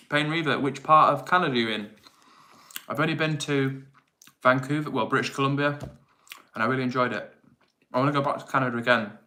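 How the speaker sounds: talking with a mouth full of food. Real, not acted. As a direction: speak through a mouthful while eating. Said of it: "excuse me eating with my mouth full of food".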